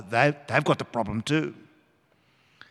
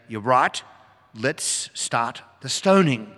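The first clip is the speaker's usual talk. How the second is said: stern Jesus; slower than usual. Pretend. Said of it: "He could say".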